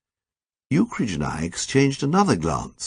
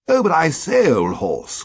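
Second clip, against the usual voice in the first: quavering; 8 semitones higher than usual. A narrator's reading. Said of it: "quavered Ukridge".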